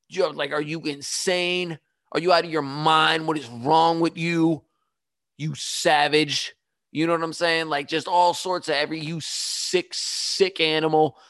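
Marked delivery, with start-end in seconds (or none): 0.5-6.5 mild mock outrage, words drawn out; retold screaming. Telling off the man who sneezed, mildly re-enacted outrage. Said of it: "I'm screaming at him". 9.0-11.2 mildly re-enacted disgusted scolding; retold screaming. Retelling the insult to the sneezer, mild mock outrage. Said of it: "I'm screaming at him".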